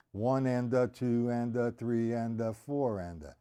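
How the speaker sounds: even, chanted triplet count; counting aloud. Shown as a demonstration. Drum teacher showing students where to start, counting aloud. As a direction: count steadily in time, easing downward. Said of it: "you're starting to count".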